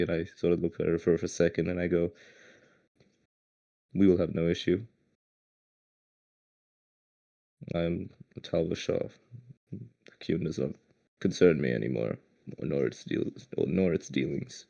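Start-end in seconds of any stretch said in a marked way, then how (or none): 3.9-14.7 slow, emotionless warrior voice; slow and cold, giving nothing away; stone-faced. Acted. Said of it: "stone-faced ... not a lot of emotion".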